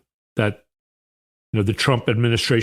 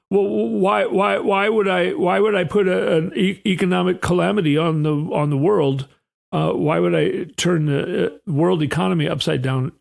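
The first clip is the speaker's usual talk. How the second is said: stammering Bessent impression; 4 semitones higher than usual. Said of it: "so he's talking like this".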